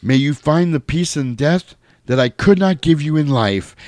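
lightly dramatized movie farewell; George Clooney. Retold or imitated. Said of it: "And he goes".

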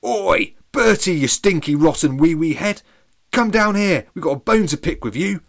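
high, loud shouted insults; booming yell. Acted. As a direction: boom it across the valley. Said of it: "and boomed".

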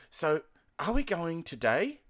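broad Australian "today" that sounds like "to die"; Australian accent. Retold or imitated. Asking an uncle about the day's plans, in Australian accent. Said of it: "can't understand my Australian accent".

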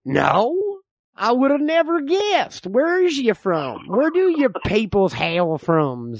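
lightly voiced suspicious old frontiersman; old man. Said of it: "I'm the old man".

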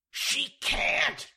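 loud, alarmed stage whisper; hissed whisper. A narrator's reading. George alarmed inside the washroom, hissed. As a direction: hiss it sharply from hiding. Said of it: "George hissed".

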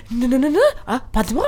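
mock French chatter; imitated French speakers. Friend mimicking French desk staff, imitated French chatter. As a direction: imitate rapid French refusals. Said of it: "De pratade sådär".

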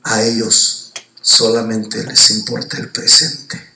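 low, slow, grave voice; voice of God. Retold or imitated. God's voice answering the dreamer. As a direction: speak as the heavenly voice. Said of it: "escuché la voz de Dios".

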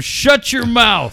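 high, drawn-out mock shout; mock heckling. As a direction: imitate a wrestler shutting up the crowd. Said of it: "telling everybody in Padres Twitter".

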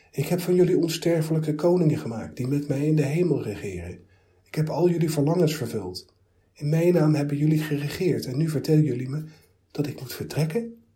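high, loud, wounded protest; plead, raising your voice in hurt. Acted. God protests to the philosophers, high and hurt.

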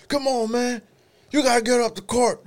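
very high, loud whining shout; hammed-up yell of a puny overeager teammate; little skinny whiner. Skinny park player urging teammates upcourt, shrieky mock nagging. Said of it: "that one little skinny motherfucker".

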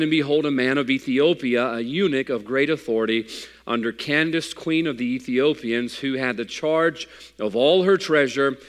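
measured King James reading; scripture reading. Acted. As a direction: read it like a pulpit lesson. Reads scripture aloud.

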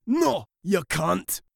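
a snooty slow no; mice refusing. A narrator's reading. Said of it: "said the mice".

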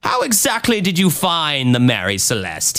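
lightly voiced bad Scottish accent, questioning; accusing Scottish accent. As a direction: press the witness in a weak Scottish accent. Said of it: "I'm doing an awful Scottish accent".

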